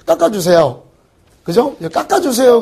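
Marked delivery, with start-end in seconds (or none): 1.9-2.6 cheap-sounding plea. Retold or imitated. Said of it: "좀 없어 보이잖아요".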